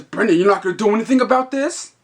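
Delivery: retold complaint rising in protest; mock indignation. Pinched customer complains to the clerk, mock indignant.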